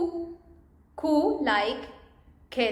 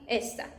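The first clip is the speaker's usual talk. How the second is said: softer esta, stressed on "es"; stress on first syllable; 6 dB quieter than usual. Shown as a demonstration. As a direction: let "ta" drop away in esta. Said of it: "this one".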